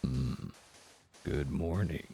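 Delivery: soft low ASMR murmur. Shown as a demonstration. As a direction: hush it down, ASMR style. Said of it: "A S M R voice some more".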